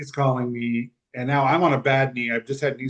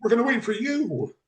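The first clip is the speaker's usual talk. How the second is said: high, choked-up voice; holding back real tears; tearful; 9 semitones higher than usual. Real, not acted. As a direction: get the words out while close to crying. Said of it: "I started crying like I am now".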